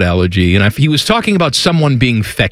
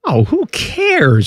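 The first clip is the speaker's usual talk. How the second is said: dismissive; 11 semitones higher, much slower than usual. Real, not acted. Dismissive outburst.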